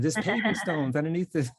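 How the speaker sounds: playful mock proclamation; mock grand announcement. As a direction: announce it like a pompous official. Mock proclamation quoted from book.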